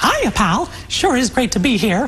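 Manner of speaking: high, American-style cartoon mouse voice. Asked for a character voice, the speaker offers the American version first, American Mickey Mouse voice. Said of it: "Kan spille en amerikansk".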